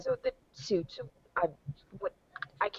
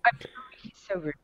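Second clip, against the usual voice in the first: a little more audible, still hushed; quiet apology, trailing softer at the end; repeated aside; 6 dB quieter, faster than usual. Acted. Repeating the apology to the cat for the table, hushed aside. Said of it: "Again to the cat".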